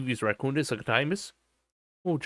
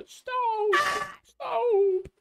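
much higher, cried-out mock "Stop!"; mock shrill yell. Streamer mocks people crying stop in a squeal. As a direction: squeal it like a panicking kid.

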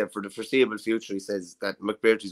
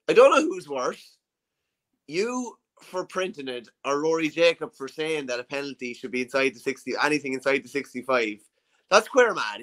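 attempted Wexford accent, wobbly in the middle; a pundit's go at a Wexford lad's accent, a bit higher at the start; 3 semitones higher than usual. Pundit retells a Wexford lad's jibe in a Wexford accent. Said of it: "I'll try and do it in the best Wexford accent".

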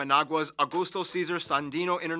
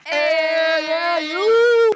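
high, loud yell at someone; shouting; 11 semitones higher, 9 dB louder, much slower than usual. Acted. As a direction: call him out loudly. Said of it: "it kinda goes like this".

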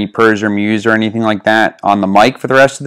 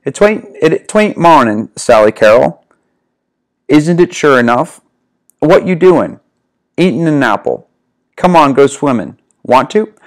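Southern accent; 2 semitones higher than usual. Shown as a demonstration. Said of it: "to read this in a southern voice here".

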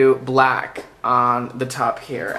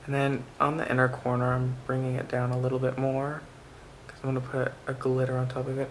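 soft-spoken; 6 dB quieter than usual. Real, not acted. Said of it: "I sound so soft".

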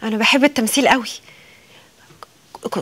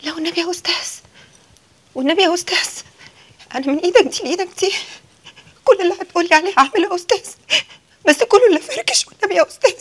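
pleading into tears; 5 semitones higher, faster than usual. Acted. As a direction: plead harder and harder until she breaks into crying. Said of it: "أنت بتعيطي ليه دلوقتي؟". (رجاء يتحول إلى بكاء)

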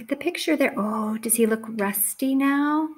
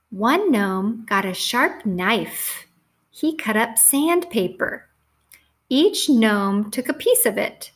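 measured, clearly phrased storybook reading; story read to children; slower than usual. A narrator's reading. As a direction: read it out to a class of young children.

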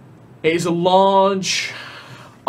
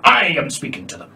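irritated hush. Acted. Monster scolds empty space.

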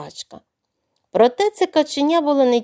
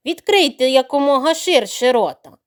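stern; 4 dB louder than usual. Acted. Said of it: "строго наказало каченя".

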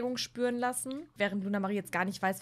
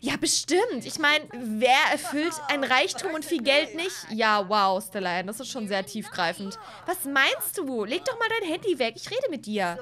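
put-on snooty Sim girl; 3 dB louder than usual. Stella Ann on date, pushy.

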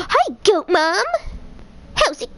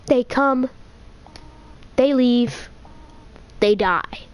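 Goat Mom voice; much slower than usual. Acted. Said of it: "I can't voice characters in Undertale".

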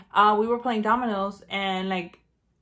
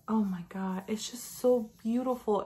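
hushed, breathless whisper; awed whisper. Real, not acted. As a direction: whisper it like you can't believe it. Admiring the palette.

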